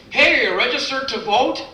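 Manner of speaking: high, chirpy clipboard-guy call; pushy canvasser. Retold or imitated. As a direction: pester passers-by brightly. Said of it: "those really ridiculous people".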